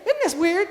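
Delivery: "Isn't" said as "idn't"; excited small-town "Isn't", d in place of z; Southern slurred form. Shown as a demonstration. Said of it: "I'll say instead of".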